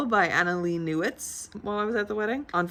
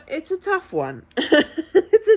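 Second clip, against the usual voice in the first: tearful laughing admission; 10 semitones higher, 7 dB louder than usual. Real, not acted. Emotional about being single at weddings.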